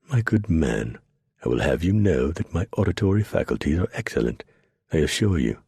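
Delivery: lofty, superior talk to a rough man; condescending. Acted. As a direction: speak down your nose at him, lightly. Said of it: "in a very condescending tone said".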